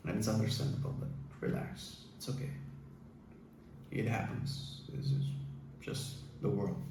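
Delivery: hushed reassurance. Real, not acted. Host soothing an angry viewer, hushed and soft. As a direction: breathe it out gently to settle him. Calming a listener who feels anger.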